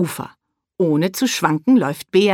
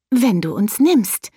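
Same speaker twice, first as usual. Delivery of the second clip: careful; 4 semitones higher than usual. Acted. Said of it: "fügt Tulipa vorsichtig hinzu".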